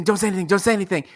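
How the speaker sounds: same plea rattled off fast; a mock-frantic rapid plea; rapid repeat. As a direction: gabble the repeats in a nervous rush. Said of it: "my sister would be like".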